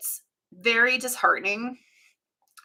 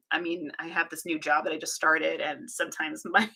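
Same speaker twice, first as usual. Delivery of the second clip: ordinary talk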